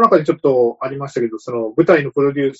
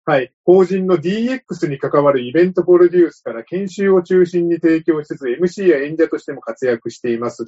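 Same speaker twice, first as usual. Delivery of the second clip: monotone read-out, no expression; flat reading; 3 semitones higher than usual. Real, not acted. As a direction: read it stiffly like a script. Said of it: "ちょっと棒読みで読ませていただいた". (棒読みで読み上げる)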